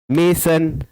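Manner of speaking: "mason" measured out as two clappable beats; two-beat syllables. Shown as a demonstration. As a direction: say "mason" syllable by syllable, may-son. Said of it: "you can clap two times".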